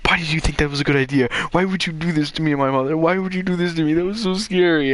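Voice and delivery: fast, acted-out child's protest; mock distressed complaint. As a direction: rush it out, hammed-up upset. Retold complaint to mother afterwards.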